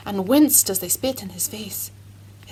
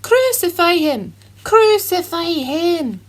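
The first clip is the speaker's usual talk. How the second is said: high, loud angry chant; furious crowd shout; 7 semitones higher, 7 dB louder than usual. A narrator's reading. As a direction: yell it like an enraged mob. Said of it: "shouting in fury".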